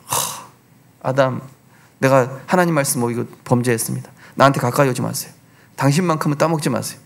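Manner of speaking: 뉘우치는 하와. Pretend. 하와가 아담에게 참회하는 장면.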